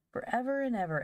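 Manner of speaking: put-on high-pitched small child's echo; little girl echo. A narrator's reading. Little Phronsie echoing her brother, high small-child voice. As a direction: chime in high, like a tiny girl. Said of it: "echoed little Phronsie".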